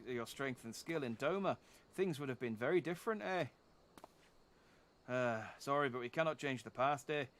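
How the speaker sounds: a lightly done Canadian father, eh at each end; a proud old Canadian father, solemn; Canadian accent. Acted. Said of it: "it's tiring being Canadian".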